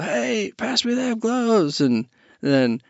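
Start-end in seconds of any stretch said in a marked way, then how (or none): 0.0-1.8 higher, slow mock call for the gloves; mimicking the fan. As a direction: tease the guest's yell lightly. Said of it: "when he's like".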